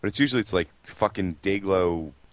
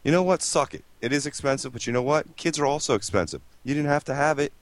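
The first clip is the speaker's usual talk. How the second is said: heated rant; 7 semitones higher than usual. Real, not acted. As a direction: vent at careless parents. Ranting at parents of babies.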